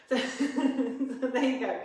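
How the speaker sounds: giggling through the words; laughing. Real, not acted. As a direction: laugh while you apologise. Laughs at her own muddled counting.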